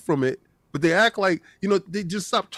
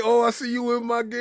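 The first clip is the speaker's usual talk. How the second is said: mock a passer-by's snide greeting, pitched up; higher, put-on teasing quote; mocking impression; 4 semitones higher, faster than usual. She come walking past the side character, mocking impression. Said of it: "Why you gotta say it like that?".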